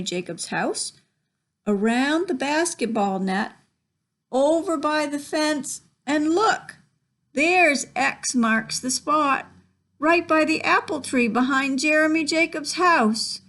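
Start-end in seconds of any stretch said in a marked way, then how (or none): 4.3-13.4 building excitement. Real, not acted. Reader traces map path for children excitedly. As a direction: build up to the big find.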